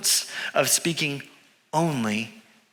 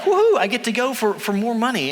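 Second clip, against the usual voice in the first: higher, mildly gleeful cheer; 5 semitones higher than usual. Retold or imitated. Balaam setting off for more money, mildly gleeful. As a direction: lightly act out eager delight.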